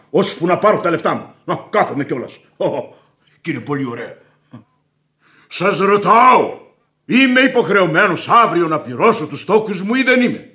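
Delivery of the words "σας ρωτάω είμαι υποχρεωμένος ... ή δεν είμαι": raised voice. Acted. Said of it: "μην ξεφωνίζετε".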